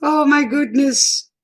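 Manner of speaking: high exasperated oh my goodness; overwhelmed by heat; exasperated exclamation. Real, not acted. Hot flash.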